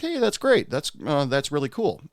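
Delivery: high, bright-eyed happy reaction; cheerful congratulations. Retold or imitated. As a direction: sound genuinely pleased for her. Cheerful reply to coworker's news.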